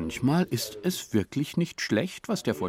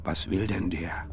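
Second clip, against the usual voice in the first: suspicious hushed whisper; wary whisper. Acted. A villager whispers suspiciously about the stranger. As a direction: hiss the question to the neighbour.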